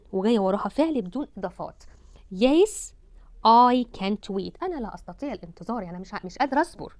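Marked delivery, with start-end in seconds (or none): 3.5-4.6 slow model reading. Shown as a demonstration. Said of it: "slow model reading".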